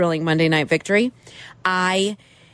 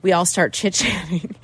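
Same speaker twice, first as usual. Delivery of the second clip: talking while chewing gum; words around a wad of gum; 2 semitones lower than usual. Real, not acted. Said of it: "I think I still have gum in my mouth".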